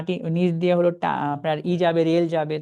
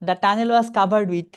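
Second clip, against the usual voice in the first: very slow, each word drawn out; deliberate teacher read; slow reading demo; 4 dB louder, much slower than usual. Shown as a demonstration. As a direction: model the phrase slowly for students. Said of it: "With থেকে একটানা কতটুকু অংশ পড়বেন?".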